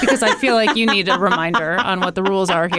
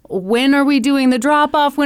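urgent interruption; 5 semitones higher, 3 dB louder than usual. Acted. Co-host plays Alan interrupting the caller.

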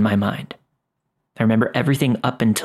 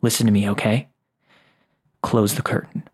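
calm and firm. A narrator's reading. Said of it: "in a very calm but firm voice".

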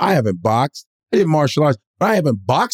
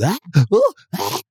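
high mock "ah, ooh" noises; mimicked crowd whoops; 6 semitones higher than usual. Comic describing everybody else's noise, mimicked whoops. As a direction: imitate an excited crowd's yelps.

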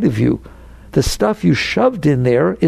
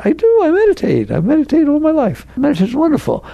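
eager protest; 10 semitones higher than usual. Real, not acted. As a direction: jump in to set the record straight. Protesting he does like meditation.

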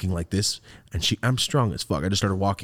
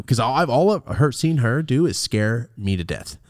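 ordinary talk, nothing marked

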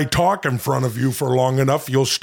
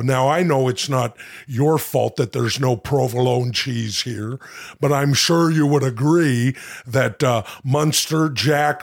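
lightly voiced Jesse Ventura, annoyed; a mild Ventura rant. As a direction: Ventura complaining about cheese. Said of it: "monologue as Jesse Ventura".

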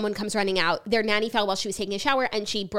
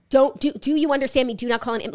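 mildly raised, scolding voice; retold yelling; 4 semitones higher, 4 dB louder than usual. Retelling Lenny rebuking Lisa, mock yell. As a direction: imitate him telling her off, a bit louder. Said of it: "comes in and yells at her".

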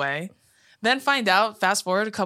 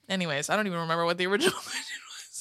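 quiet laughing aside; 5 dB quieter, faster than usual. Real, not acted. Trails off laughing.

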